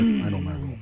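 high put-on voice, same words; high-pitched voice. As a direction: jump way up in pitch for the repeat. Repeats line in put-on voice.

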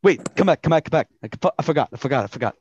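a director calling someone back, suddenly remembering; excited. Acted. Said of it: "she's kind of excited".

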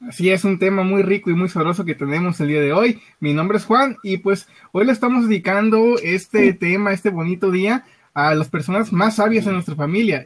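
cheerful radio announcer read; radio host. Acted. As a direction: present the show on air.

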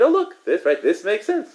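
very high, eager quoted exclamation; mock delighted discovery. Quoting scholars who looked at Torah, mock delight. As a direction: imitate someone thrilled to spot the answer.

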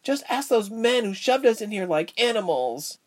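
high-pitched, upset protest; distressed girl's voice; crying out. A narrator's reading. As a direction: cry out the accusation, pitch way up. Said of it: "the frizzy-haired one cried out".

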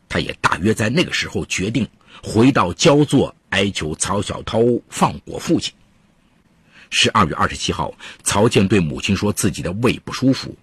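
measured storytelling voice; true crime narrator. A narrator's reading. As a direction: tell the case like a radio crime story.

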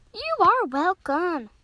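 slow, drawn-out dolphin answer; deliberate reply. Acted. Dolphin answers thanks for whacking shark, slow deliberate reply. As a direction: space out each word.

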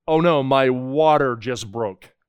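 slow, a hint of a startled pregnant woman; mildly imitating a wife whose water broke; lightly voiced expectant mother. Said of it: "an expression ladies use like".

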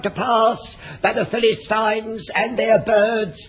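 mock sermon. Mock preacher sermon sketch.

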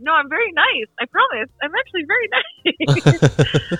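high, giggly insistence; laughing protest. Retold or imitated. Actress assuring the director she is nice, high and laughing. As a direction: laugh through the promise. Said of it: "And I was like".

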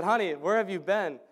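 lightly imitated accent of a cleaning lady; Maria's accent. Cleaning lady asks where he has been, in a faintly put-on accent. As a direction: have another half-hearted go at her accent. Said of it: "I can't do the accent. I shouldn't try".

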